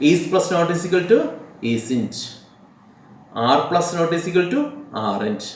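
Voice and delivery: each word spaced out slowly for writing down; slow dictation. Shown as a demonstration. Teacher dictating contraction rules to students, very slow and deliberate. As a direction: read it out slowly so students can copy.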